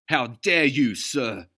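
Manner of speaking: high, loud outraged voice; Notley exclaiming at Sam; indignant exclamation. A narrator's reading. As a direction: huff with offended dignity. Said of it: "Notley exclaimed".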